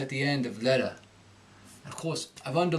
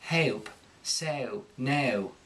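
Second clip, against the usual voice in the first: prim Cockney accent, eh-oh vowels; overly proper Cockney try; too proper Cockney accent; much slower than usual. Shown as a demonstration. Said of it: "they go a little bit too proper with it".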